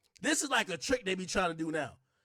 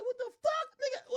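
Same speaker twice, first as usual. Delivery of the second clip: mock startled squeak. Straight man startled at being shouted down.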